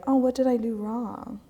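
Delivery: a hint of a worried kid asking what they did; guilty worry. Someone let down by another asks what they did, mock-worried. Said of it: "you're like".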